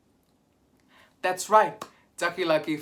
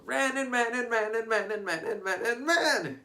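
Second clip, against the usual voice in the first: breathless running; 10 semitones higher than usual. Acted. Acting out running.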